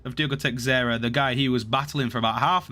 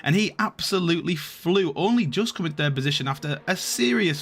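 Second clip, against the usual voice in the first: race-finish commentary building to higher pitch; live play-by-play; 4 semitones higher than usual. Real, not acted. Commentator calling the finish for viewers, building in admiration. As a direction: lift and stretch the praise as it builds.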